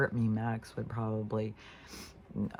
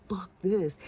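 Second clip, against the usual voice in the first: voicing spooked dog; 7 semitones higher, 4 dB louder than usual. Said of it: "Max wants nothing to do with it".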